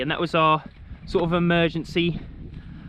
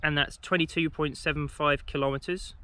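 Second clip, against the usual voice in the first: talking through a mouthful of crisps; mouth full. Real, not acted. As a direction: speak with crisps still in your mouth. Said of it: "I've got all crisps in my mouth still".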